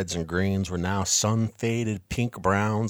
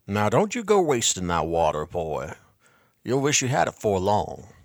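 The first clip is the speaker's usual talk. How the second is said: put-on gruff old salesman; 4 dB louder than usual. Old salesman scolding boy.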